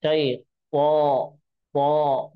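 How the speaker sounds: पो slow, round and heavy; full-mouth po. Shown as a demonstration. Teacher showing a full, rounded पो. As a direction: fill the mouth on पो. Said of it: "ऊपर जाने के साथ साथ मोटा भी होगा".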